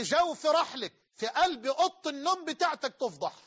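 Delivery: rising, heated warning; preacher losing his temper at the sinner. Real, not acted. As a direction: let the anger break through. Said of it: "أنا منفعل عليك".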